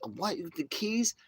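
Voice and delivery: can't believe the luck, squeal it; high, delighted double take; amazed disbelief. Pretend. Hearing about motorhome keys.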